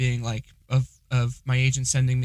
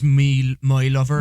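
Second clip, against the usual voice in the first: louder, rolling West Country; hard-R West Country, like a pirate; West Country accent; 5 dB louder, slower than usual. Retold or imitated. Quoting partner's catchphrase, West Country accent. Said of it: "Liv always says".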